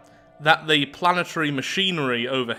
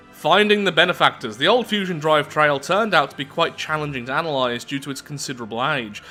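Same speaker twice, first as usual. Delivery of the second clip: dramatic event read-out; story narration. A narrator's reading. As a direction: narrate a sci-fi report with lively emphasis. Reads the game's event text.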